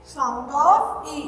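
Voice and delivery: drawn-out, very slow title call; slow announcement. Shown as a demonstration. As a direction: stretch the title out for the class. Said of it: "आज अपन काय के सीखेंगे?". (धीमे-धीमे खींचकर शीर्षक बोलना)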